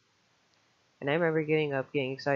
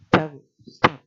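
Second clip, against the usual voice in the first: loud panicked cry; freaked-out shout; 12 dB louder than usual. Retold or imitated. Freaking out at the roommate, a loud panicked shout. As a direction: yell it in fear, pointing at him. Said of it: "I started freaking out".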